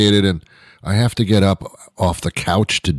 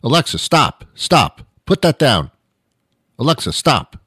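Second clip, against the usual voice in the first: higher, firm commands to a dog; mock dog-owner scolding; 4 semitones higher than usual. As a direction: tell off a dog chewing something. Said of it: "That's what I say to my dog".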